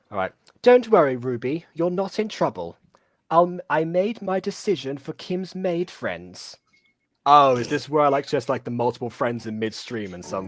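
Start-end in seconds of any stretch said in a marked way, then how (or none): 0.6-6.5 put-on over-the-top, swooping British royal-style accent. Playing a role, reassuring another character, in an exaggerated British accent. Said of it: "go as British as you possibly can".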